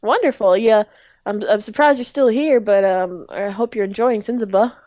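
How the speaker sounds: lightly southern small talk; Speed's southern accent. Acted. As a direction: welcome them as a southern grocer. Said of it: "I know he had a southern accent".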